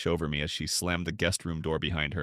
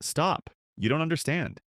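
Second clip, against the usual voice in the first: higher-pitched, sharp cut-in; 7 semitones higher than usual. A narrator's reading. Wife stopping her husband's accusations, sharp. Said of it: "Her voice was sharp, but low".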